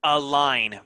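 "Align" said as a-line; "Align" with no G sound; silent G. Shown as a demonstration. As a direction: end "Align" on a clean N. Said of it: "Very good".

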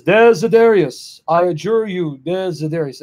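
lightly acted priest's adjuration, name drawn out; firm, mildly dramatized invocation; exorcist's command. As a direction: retell a solemn exorcism order.

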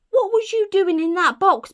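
high, loud, incredulous burglar; storybook burglar astonished at a baby; amazed questioning. Acted. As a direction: exclaim it at a high pitch.

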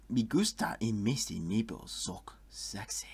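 hammed-up fake Spanish accent; terrible Spanish accent. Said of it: "That was a terrible Spanish accent".

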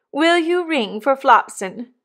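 slow, high, grand request; stately hostess. A narrator's reading. Missus Pocket asking Drummle to ring, slow and stately. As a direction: ask as a lady of rank.

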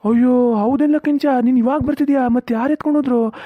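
sudden realisation, voice jumping up; surprised. Acted. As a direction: farmer shocked to hear the worker just arrived. Farmer realises coconuts were stolen.

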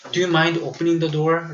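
"Do you mind opening the door?" said very slowly and clearly; slow model sentence. Shown as a demonstration. Teacher modelling for students, "Do you mind opening the door?" slowly. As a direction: drill it slowly, word by word. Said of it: "라고 합니다".

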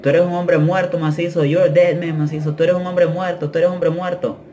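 mock gang yelling, kept at talking volume; retold taunting yells. Inmates threatening him from the windows, mock yelling. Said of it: "me empiezan a gritar por las ventanas".

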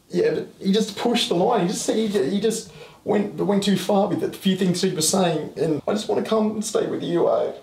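high, strained and upset, close to tears; distressed venting. Real, not acted. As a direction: pour out despair to Mum on the phone. Upset after a fight, on phone.

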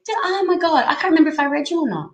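words tumbling out in a fluster; flustered rush. Real, not acted. Reader unsure if she read for a viewer, flustered. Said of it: "I need to calm down".

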